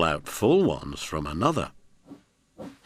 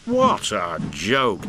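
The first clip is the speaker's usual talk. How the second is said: chortling; 3 dB louder, slower than usual. Acted. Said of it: "he chortled".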